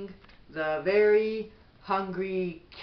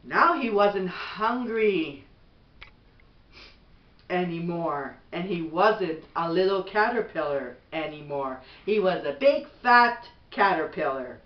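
gentle, even bedtime storybook read; reading to children; 3 dB louder than usual. Acted. Mother reading a bedtime book to her son, gentle storybook voice.

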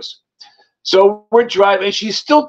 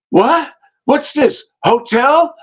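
higher-pitched mock alarm; puzzled, raised questions; retold startled questioning; 5 semitones higher, slower than usual. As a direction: imitate someone waking up confused. Woken girl finds herself at hotel.

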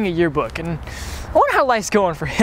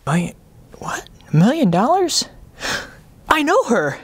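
higher and higher, thrilled disbelief; excited; 11 semitones higher than usual. Acted. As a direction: cheer like you just won. Viewer excited by news.

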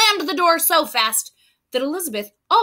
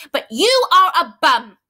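louder flat verdict on bum; blunt put-down; 6 dB louder than usual. Acted. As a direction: land the insult firmly. Elizabeth's punchline insult.

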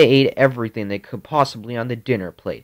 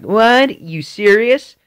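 much higher, louder mock gasp of disbelief; shocked mom; 10 semitones higher, 7 dB louder, slower than usual. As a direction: mom caught off guard, voice jumping up. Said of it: "she's like".

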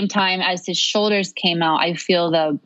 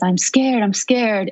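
higher, lightly acted frightened plea; mild panic; 4 semitones higher, slower than usual. Labouring woman tells Ina May, retold with mild panic. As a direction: imitate someone starting to panic. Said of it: "starting to panic".

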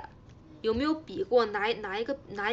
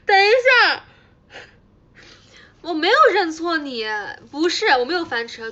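high, very loud protest; shouted scramble to deny a slip-up; flustered denial; 7 semitones higher, 13 dB louder than usual. Real, not acted. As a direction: burst out in panicked self-defence. Caught mistaking someone, denies it.

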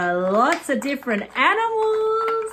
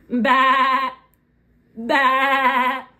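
sheep bleat. Shown as a demonstration. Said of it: "That's the sound a sheep makes".

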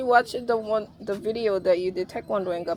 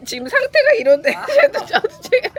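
laughing; 10 dB louder than usual. Real, not acted. Laughing while deflecting a compliment.

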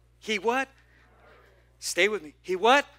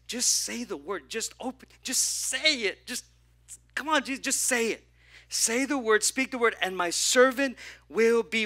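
higher, louder urgent plea; a centurion begging; pleading centurion; 4 semitones higher, 3 dB louder than usual. Acted. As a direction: beg Jesus to just say it.

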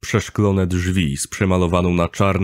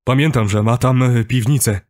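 raised, higher-pitched voice; talking loudly; 4 semitones higher, 3 dB louder than usual. A narrator's reading. Kuba recalling a cellar, talking loudly. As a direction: keep talking so he can't interrupt. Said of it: "mówił głośno".

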